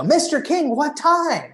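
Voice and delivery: shouting through window. Retold or imitated. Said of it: "so I'm shouting".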